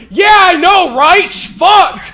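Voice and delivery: loud high shaken agreement; a rattled guy shouting back; loud freaked-out curse; agreeing stranger's yell. Retold or imitated. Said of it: "this dude behind me going".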